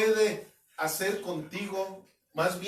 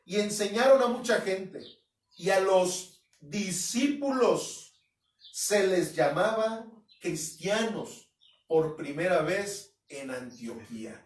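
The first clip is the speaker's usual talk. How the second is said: preacher reading scripture aloud, louder and measured; 4 dB louder than usual. Acted. Reads Hechos 11:25 aloud.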